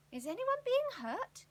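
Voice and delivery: put-on a boy's brave call into the dark. A narrator's reading. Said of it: "he called".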